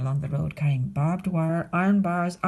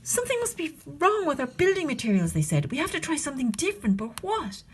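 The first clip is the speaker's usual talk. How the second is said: puzzled little wolves; 7 semitones higher than usual. Acted. Wolves puzzle over failure.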